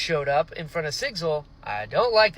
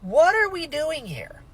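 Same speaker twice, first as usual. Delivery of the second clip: high, slow disbelief; bewildered; 8 semitones higher than usual. Retold or imitated. Reader confused by the family split, slow high bafflement. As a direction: stretch out the baffled question. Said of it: "I was like".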